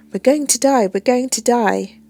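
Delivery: loud, high panic; panicked. Acted. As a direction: blurt out in terror. Panicking on bumpy plane.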